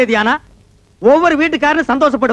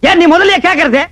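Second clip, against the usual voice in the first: raised, indignant comeback; angry retort; 3 semitones higher, 4 dB louder than usual. Acted. Man arguing with caller on phone, angry retort. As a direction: throw the blame straight back.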